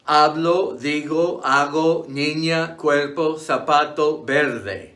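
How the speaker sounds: hablo, digo, zapato, each stressed on the next-to-last syllable; stress on penultimate syllable. Shown as a demonstration. Teacher giving examples like verde, stressed on the next-to-last syllable. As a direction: list the Spanish words, weighting the second-last syllable as in zapato. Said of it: "stressed on the next to last".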